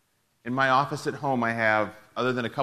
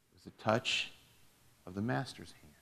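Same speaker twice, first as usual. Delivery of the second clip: said with a smile; 3 semitones lower, 7 dB quieter than usual. A narrator's reading. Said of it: "he said with a smile".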